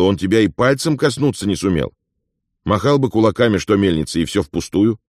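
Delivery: a lively, knowing companion; Afonya, lively friend. Acted.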